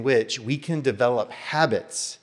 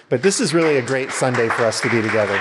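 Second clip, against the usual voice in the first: eager welcome; 2 semitones higher, 7 dB louder, faster than usual. Real, not acted. Pastor urging welcome.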